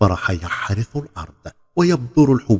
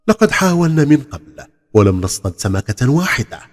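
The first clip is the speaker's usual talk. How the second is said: louder, higher amazed remark; astonished; 5 semitones higher, 4 dB louder than usual. Acted. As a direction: sound taken aback. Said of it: "فقال أحدهم مدهوشا".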